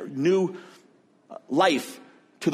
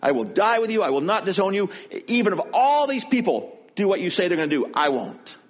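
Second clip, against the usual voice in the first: higher, pleading vow of loyalty; impulsive Peter; 4 semitones higher than usual. Retold or imitated. Peter vowing to Jesus he will die with him, fervent. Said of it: "What's he saying?".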